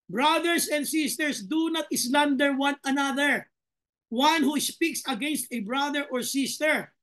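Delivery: slow, measured Bible reading; solemn verse read to the congregation; scripture reading. Acted. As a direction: read each word of the verse deliberately. Rereads the verse slowly.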